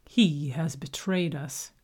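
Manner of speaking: cold anger. Acted. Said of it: "Haru's anger came cold and dark".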